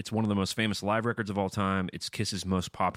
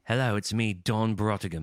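mock posh introduction; 2 semitones higher than usual. Puts on a grand character voice.

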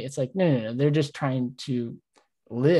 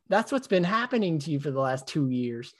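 dawning realization. Retold or imitated. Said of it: "my brain goes".

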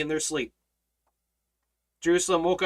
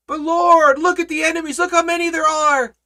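higher, pleading mock complaint; whiny worried believer; 11 semitones higher, 6 dB louder than usual. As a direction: play the anxious believer pointing at enemies. Mimicking fearful believer.

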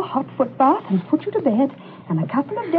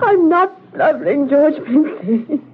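slow, drawn-out wail of protest; tearful denial; slower than usual. Acted. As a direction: deny it while close to tears. Denies blubbering while upset.

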